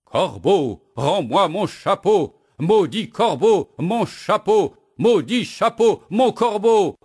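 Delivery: very high, loud furious shouting; bursting out. Acted. Woodcutter explodes at the crow, furious shout. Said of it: "le bûcheron éclate".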